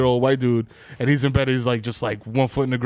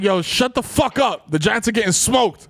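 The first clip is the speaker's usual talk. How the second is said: mock shout; 8 semitones higher than usual. Retold shout at roommate.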